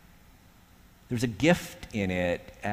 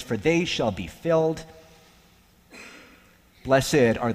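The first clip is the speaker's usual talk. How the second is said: scripture reading. Acted. Preacher reading the Beatitudes to the congregation, measured and solemn. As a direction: let each blessing land.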